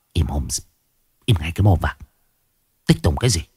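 low, terse scolding; growled menace. A narrator's reading. Possessed grandmother silencing the boy, low menacing growl. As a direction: drop the voice and growl the order. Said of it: "bỗng nhiên bà gằn giọng".

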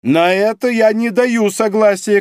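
high, loud shouted refusal; shouting. A narrator's reading. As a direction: shout it, outraged. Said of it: "крикнул Греннер". (громкий возмущённый крик)

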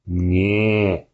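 groaning, gurgling with blood. Acted. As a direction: push it out through blood. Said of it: "Кряхтя и булькая кровью".

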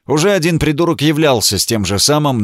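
ordinary delivery, nothing marked

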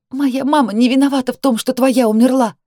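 high, loud, shaking cry; trembling voice. A narrator's reading. Sister defending her mother, voice trembling. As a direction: fight back with a quivering voice. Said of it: "Голос дрожал".

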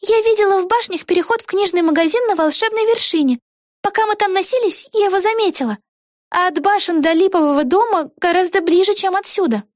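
put-on excited young witch thinking aloud; Vega's voice. A narrator's reading. Вега. (высокий голос юной ведьмы Веги)

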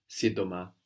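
Σύντομα with the ντ said as a soft D, si-do-ma; soft D sound. Shown as a demonstration. Teacher models for the learner, σύντομα with a D sound. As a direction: say σύντομα with a D in the middle, no M. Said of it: "Like with a D".

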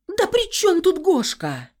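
high, loud, drawn-out cry; shouting back. A narrator's reading. Heroine defending her husband, high loud shout. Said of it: "закричала я в ответ".

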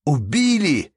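shocked question rising to a high, loud cry; horrified wail. A narrator's reading. Merchant runs into the hall hearing of murder, wailing. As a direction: cry out at dreadful news. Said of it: "завопил купец".

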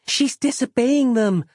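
put-on high, slow little girl; earnest young child; small girl voice.

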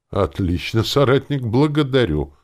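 effusive, cordial praise; heartfelt thanks. A narrator's reading. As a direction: thank them with feeling. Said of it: "сказал я ещё душевней".

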